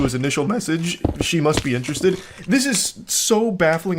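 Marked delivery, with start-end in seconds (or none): 2.5-4.0 higher, slow, cracking with disbelief. Real, not acted. Baffled by his texts, voice cracking high and slow. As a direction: let the voice crack up high, dragging it out. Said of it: "it's making my voice crack".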